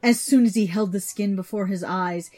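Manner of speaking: plain reading voice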